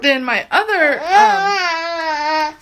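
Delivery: holding back real crying; teary. Real, not acted. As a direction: voice wobbling with tears. Crying while praising product.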